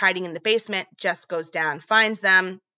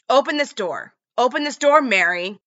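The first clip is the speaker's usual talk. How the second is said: higher, louder retold yell at the door; shouting command; 6 semitones higher, 7 dB louder than usual. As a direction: bang out the order to open up.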